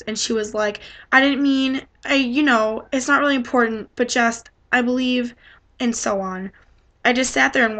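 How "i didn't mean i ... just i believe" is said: stumbling over words. Retold or imitated. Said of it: "She started stumbling all over her words".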